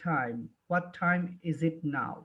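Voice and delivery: time with an aspirated t, said slowly; modelling how foreigners say time; foreigner's stressed time. Shown as a demonstration. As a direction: hit the t of time with a puff of air. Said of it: "stress দিয়ে যখন".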